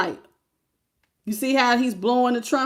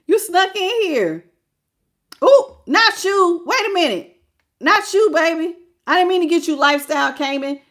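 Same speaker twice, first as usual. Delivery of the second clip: playful surprise; 6 semitones higher, 5 dB louder than usual. Real, not acted. Apologizing to a viewer she picked by mistake, in high teasing surprise. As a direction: gasp and tease at the wrong pick.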